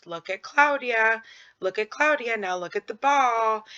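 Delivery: playful teacher voice; talking to a child. Shown as a demonstration. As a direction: guide the child's eyes back and forth. Directing child's gaze to peer.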